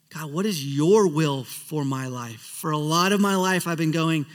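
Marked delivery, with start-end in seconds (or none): 0.1-2.4 slow, sincere prayer; simple prayer. Shown as a demonstration. Pastor models a simple prayer, slow and sincere. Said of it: "a simple prayer of".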